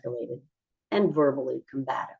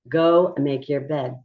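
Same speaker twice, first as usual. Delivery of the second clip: drawn-out steady instruction; calm, slow command; slower than usual. Shown as a demonstration. Teacher showing a calm tone to a child, slow and level. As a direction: go make your bed said slowly and evenly. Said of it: "which one would cause you to escalate".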